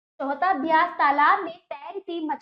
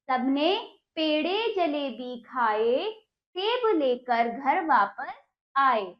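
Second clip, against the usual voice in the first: slow, sing-song poem reading; poem recitation; slower than usual. Shown as a demonstration. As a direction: recite it slowly for children. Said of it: "teacher recites the poem".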